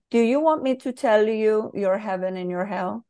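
put-on light Brazilian accent on the quoted author; quoting Paulo Coelho with a hint of Brazilian accent; a touch of Brazilian Portuguese lilt. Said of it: "I'm doing a Brazilian accent".

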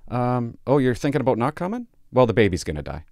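sugary phone voice turning blunt; a hint of fake cheer, then blunt; mock sweet threat. Shown as a demonstration. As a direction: sweetly tell them the baby will die. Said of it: "this is how you get M C F out".

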